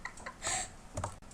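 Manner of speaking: giggling through the words; real giggle fit; cracking up. Real, not acted. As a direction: lose it mid-take. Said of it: "I can't do it".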